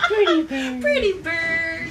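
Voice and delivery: loud, high squawking parrot. Acted. Parrot echo.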